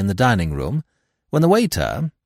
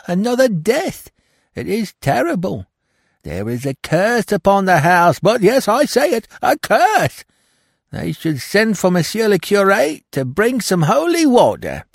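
much higher, louder, panicked servant; Françoise, frightened maid; 12 semitones higher, 5 dB louder than usual. Acted. Maid Françoise tells Hastings of another death, terrified and high. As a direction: wail about the curse on the house, rising in terror.

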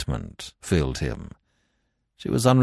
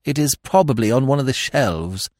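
short, higher-pitched reply; shortly; 6 semitones higher than usual. A narrator's reading. Lady Constance answering her rambling brother, shortly. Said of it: "said Lady Constance shortly".

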